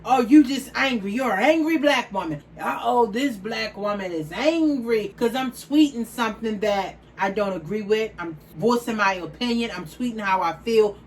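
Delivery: loud sarcastic imitation of Twitter critics; hammed-up scornful critic voice; mocking critics. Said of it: "when I do tweet".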